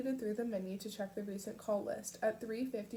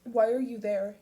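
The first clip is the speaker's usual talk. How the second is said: confused; 10 dB louder than usual. A narrator's reading. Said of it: "His voice higher, now confused".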